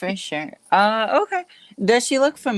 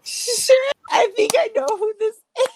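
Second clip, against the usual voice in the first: excited; 10 semitones higher, 3 dB louder than usual. Real, not acted. Excited recognition.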